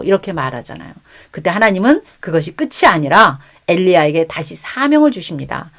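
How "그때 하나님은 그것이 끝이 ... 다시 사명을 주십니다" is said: normal talking voice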